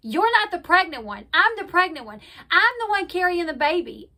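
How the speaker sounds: mildly heated mock retort; indignant retort. Retold quarrel, she snaps back.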